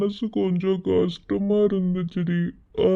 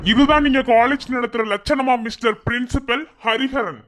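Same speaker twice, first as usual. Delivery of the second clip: angry challenge; 4 semitones higher than usual. Acted. Confronting the principal.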